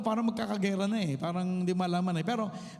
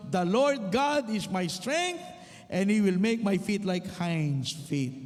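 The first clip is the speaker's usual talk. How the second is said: slow, measured Bible reading; scripture reading; slower than usual. Acted. Preacher reading Habakkuk slowly and solemnly to the congregation. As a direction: read the verse out deliberately to the church.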